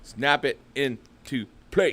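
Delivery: slow, stretched-out catchphrase; slow, dramatic echo. Pretend. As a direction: draw out each word for effect. Echoes phrase like a slogan.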